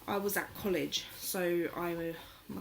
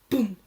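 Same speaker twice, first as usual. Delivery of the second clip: loud, heavy boom; one punched boom; imitated thud; 3 semitones higher, 10 dB louder than usual. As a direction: drop the word like a bed hitting the floor. Imitates the bed dropping.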